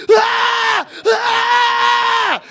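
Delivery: high mock scream; kids screaming. Kids scream jokes at comedians, high mock scream. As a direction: scream it like a room full of kids. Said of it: "started screaming".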